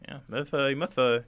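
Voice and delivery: lightly voiced Scarecrow King, casually explaining; a hint of a chatty, confident king.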